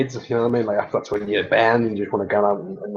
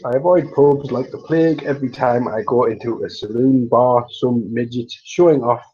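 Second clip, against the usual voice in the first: lightly put-on posh English accent; measured posh English impression. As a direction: do a posh Alec Guinness-style delivery. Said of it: "just doing my posh voice".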